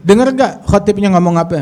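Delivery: urgent, exasperated appeal, acted lightly; indignant son. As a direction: protest to your father, voice pushed up. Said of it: "anaknya nggak kuat".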